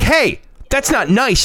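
high, drawn-out imitation of a kid; protesting child. Son objects to dad's teasing, high slow protest. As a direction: object like an offended little kid.

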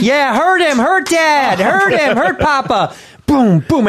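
put-on high excited child voice; kids cheering. Children cheering while their dad is killed, in high kid voices. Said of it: "I want them to clap".

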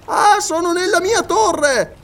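high excited scholar calling down from a tree; Paganel's voice. Acted. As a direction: play the absent-minded geographer, pleased with himself.

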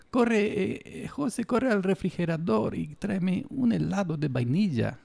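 high-pitched put-on Latino accent, slowing at the end. Podcaster mimics Latino accent ordering José around, high and mocking. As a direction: call out like a Latino cartoon character in a high voice. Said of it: "¿Qué tipo de acento es ese?".

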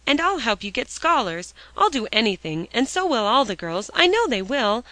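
high, loud tearful pleading. A narrator's reading. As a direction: beg for forgiveness. Alexia begging tearfully.

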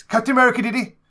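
high, loud triumphant blurt; gleeful spoiler shout. Real, not acted. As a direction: shout it out to ruin the twist.

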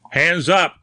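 hoarse cry. A narrator's reading. Newsman challenging the intruder at the door, hoarse cry. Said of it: "cried Grimsby hoarsely".

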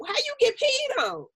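high, incredulous mock reporter question. Podcast host mimicking a reporter asking a rapper, high and incredulous. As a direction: ask it like a stunned interviewer.

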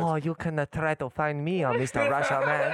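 high put-on Asian accent, laughing; mock accent. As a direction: argue back in a giggly mock Asian accent. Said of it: "I'm having racial arguments".

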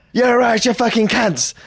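loud, high-pitched mock jeer; imitated taxi driver. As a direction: act out the brash cab driver. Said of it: "And he goes".

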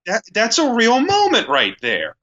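moved. Retold or imitated. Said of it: "you're just like".

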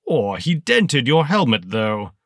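high, loud, sneering villain voice; towering armored colonel greeting a lieutenant, high and loud; menacing colonel. Acted. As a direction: let it cut like a rusty saw blade. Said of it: "like a rusty saw blade slicing through your spine".

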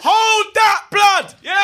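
high, loud cut-off; shouting down. Real, not acted. Fan cutting off his friend with a high, loud shout. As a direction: shut him down with a yell.

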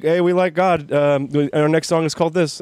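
mock band announcement. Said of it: "they'll be like".

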